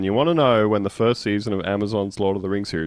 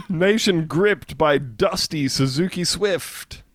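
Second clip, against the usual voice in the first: mock headline; 6 semitones higher, slower than usual. Mock headline read slowly.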